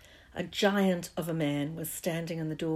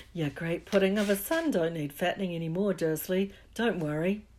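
low looming threat; 4 dB louder than usual. Acted. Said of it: "The giant chuckled darkly".

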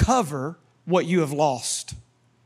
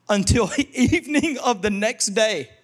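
words breaking into laughter; laughing while reading; 3 semitones higher than usual. Real, not acted. Preacher reads how long David attacked, laughing. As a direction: read on through an amazed laugh.

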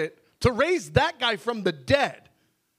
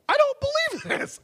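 much higher, anguished cry of the line; desperate cry. Pretend. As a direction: cry it out in despair. Repeated confession in prayer.

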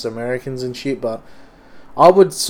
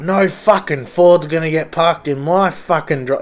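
angry dad; 4 semitones higher, 4 dB louder than usual. Retold or imitated. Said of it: "his dad was like".

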